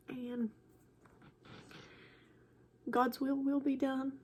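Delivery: soft, halting, holding back tears; real emotional. Real, not acted. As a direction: struggle to get the words out, with long pauses. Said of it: "sorry for getting emotional".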